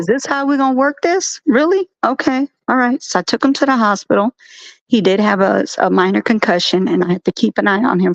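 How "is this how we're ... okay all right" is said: sarcastic disbelief. Retold or imitated. Retold confronting the school.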